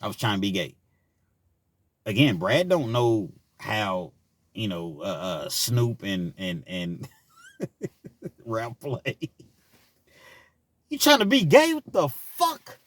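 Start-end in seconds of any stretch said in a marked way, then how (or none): 0.0-0.8 softer, lower sheepish excuse; embarrassed drunk friend explaining; sheepish confession. Retold or imitated. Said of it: "He had to say". 10.9-12.8 incredulous. Real, not acted. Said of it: "comic incredulous reaction".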